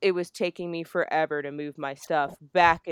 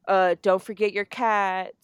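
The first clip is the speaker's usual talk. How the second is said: louder mock nagging jab; annoying nagging; 3 semitones higher, 7 dB louder than usual. Friend needling her as she packs, annoying nag. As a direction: imitate a friend needling someone on the way out. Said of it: "Like, just being fucking annoying".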